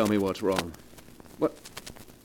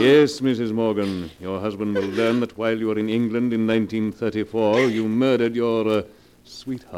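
gloating reveal. Acted. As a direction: relish exposing her. Blackmailer reveals the murder.

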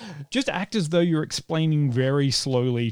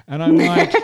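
laughing; 10 dB louder than usual. Real, not acted. Laughing mid-sentence.

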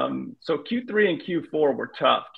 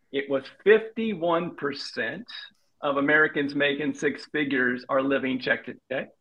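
slow and measured, mock-patient; deliberately slower. Shown as a demonstration. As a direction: spell it out slowly, with pauses, as if for a hard-of-hearing grandpa. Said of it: "I'm gonna say this slower for you".

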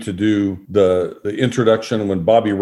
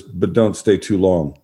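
retold parting warning; 3 semitones lower, slower than usual. Host's parting line, retold.

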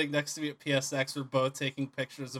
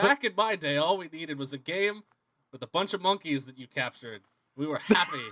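put-on fussy old man voice. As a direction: lightly play a cranky old-timer reminiscing. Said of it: "I also sound like a fussy old man".

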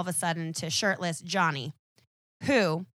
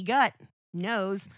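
reluctant brute. Retold or imitated. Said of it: "reluctantly is like".

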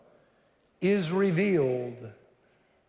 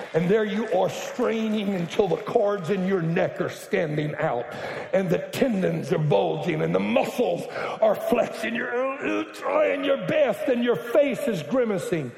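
mock straining; 4 semitones higher than usual. Preacher miming straining effort.

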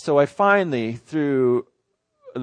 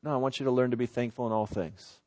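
quiet inner voice; 8 dB quieter than usual. Retold or imitated. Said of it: "the Lord just give me this sense".

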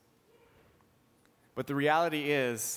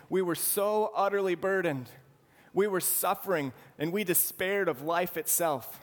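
burdened lament; 5 semitones higher than usual. Retold or imitated. Preacher voicing Paul's despair to the congregation, raised and earnest. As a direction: lean into the weight of the suffering. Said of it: "He's saying".

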